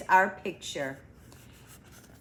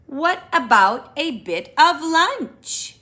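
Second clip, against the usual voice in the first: Rabbit voice; 7 semitones higher, 5 dB louder than usual. Acted.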